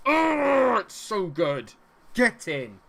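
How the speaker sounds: huge high shout of joy; ecstatic goal roar. Real, not acted. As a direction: let it explode as the goal goes in. Celebrates scoring.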